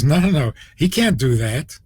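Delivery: imitating a cheerful, confident denial; brisk, lightly voiced smiling dismissal. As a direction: say it lightly as if through a big smile. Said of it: "with a big smile".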